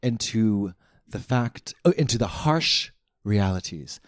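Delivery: slow, grave poetic toast fading to a whisper; dramatic recitation. Pretend. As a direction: raise a solemn toast, slowing down.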